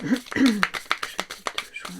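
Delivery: Jeudi deux juin stretched out slowly, syllable by syllable; musing aloud, very slowly; slow, drawn-out date. Real, not acted. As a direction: drag out "Jeudi deux juin" slowly, stressing jeudi and falling at the end. Repeats the date while shuffling.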